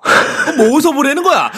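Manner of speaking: high, loud puzzled question; baffled question. Real, not acted. Baffled question about streaming. (황당한 질문)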